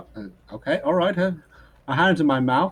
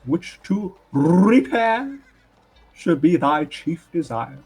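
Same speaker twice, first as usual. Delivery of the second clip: slow, declaiming a sonnet, a bit louder; poem recitation; 4 semitones higher, 4 dB louder, slower than usual. Acted. Bard reciting a sonnet to the family, declaiming. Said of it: "This is a poem".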